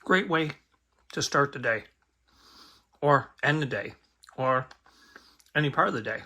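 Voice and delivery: talking with mouth full; words round a bite of food. Real, not acted. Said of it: "Sorry, talking with my mouth full".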